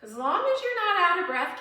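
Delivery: pumped-up coaching call; high, loud encouragement. Real, not acted. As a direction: urge them on, loud and high. Cheering on a workout class.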